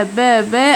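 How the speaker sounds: plain با with no puff of air; Korean b sound. Shown as a demonstration. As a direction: lax Korean b. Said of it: "حرف اللي هو البا".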